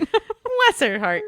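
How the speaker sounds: slow, drawn-out Southern "Bless her heart"; sugary Southern "Bless her heart", slowly. Shown as a demonstration. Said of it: "The Southern way of saying".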